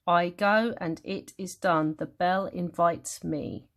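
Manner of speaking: "I go and it is done. The bell invites me" slow, in weak-strong pulses; testing iambic beat. Shown as a demonstration. Teacher testing the metre, "I go and it is done" slowly scanned. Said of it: "Iambic means the didum, didum rhythm".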